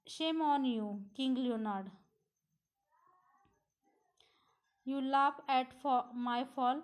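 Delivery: understated mock-angry scolding; a touch of acted anger, stressed phrase by phrase; angry shouting. Griselda scolds Leonard for laughing, understated angry shout. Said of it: "रागाने मोठ्याने ओरडते".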